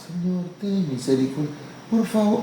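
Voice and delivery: soft, meek little prayer; timid prayer. Acted. Preacher mocking a timid believer's prayer, soft and meek. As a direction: mumble it shyly as a half-hearted plea. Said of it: "no oran como algunos".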